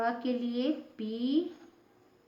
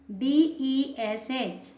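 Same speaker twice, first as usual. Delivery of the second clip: letters spelled out slowly one by one; slow spelling; 3 dB louder, much slower than usual. Shown as a demonstration. Teacher spelling a word slowly for students. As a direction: dictate each letter slowly for the class. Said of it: "teacher spells out letters".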